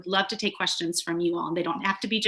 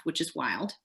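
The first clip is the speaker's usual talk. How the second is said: a quick breathy aside under the reading; whispered aside; 4 semitones lower, 8 dB quieter than usual. Real, not acted. Reader whispering a wry aside to the audience, unvoiced.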